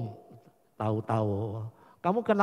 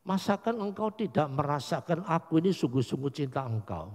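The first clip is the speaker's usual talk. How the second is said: Peter's quiet plea; 4 semitones lower, 4 dB quieter than usual. Retold or imitated. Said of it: "Petrus bilang".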